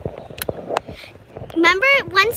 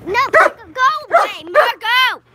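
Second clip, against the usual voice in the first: scolding the dog; 3 semitones higher, 4 dB louder than usual. Real, not acted.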